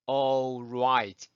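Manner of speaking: all right low, with L melted into "aw"; all right with no hard L; correct all right. Shown as a demonstration. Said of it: "이렇게 하시면 됩니다".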